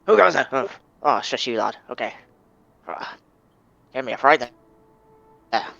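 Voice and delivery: put-on loud gruff old seadog, then calmer; a startled old pirate settling down; old sailor voice. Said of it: "and he's like".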